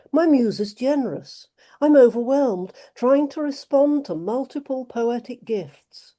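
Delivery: measured poetry recital; poem reading. Acted. Reading her own poem.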